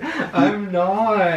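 laughing while you deny; nervous laugh. Real, not acted. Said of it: "Your little nervous laugh".

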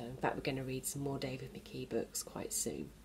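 soft secret whisper to the class; whispered aside. Real, not acted. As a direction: let them in on a secret, whispering.

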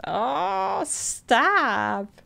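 squealy oh stop; mock gushing. Real, not acted. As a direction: gush like it's too sweet. Reacting to cute text.

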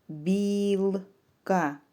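білка drawn out as біл-ка; two separate beats in білка; syllable by syllable. Shown as a demonstration. Teacher splits word into syllables.

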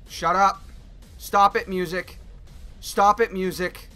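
loud, annoyed stop it; telling the music off. Real, not acted. Yelling at the game music.

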